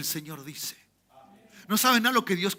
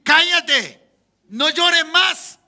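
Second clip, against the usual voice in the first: loud, high-pitched acted order; shouted command; 7 semitones higher, 8 dB louder, much slower than usual. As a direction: cry out the order, stretching the last words. Acted command to stop the crying. (orden a gritos)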